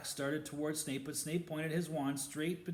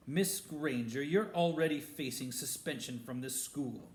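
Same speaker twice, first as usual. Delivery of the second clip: spitting contempt; 4 dB louder than usual. Acted. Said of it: "Snape spat".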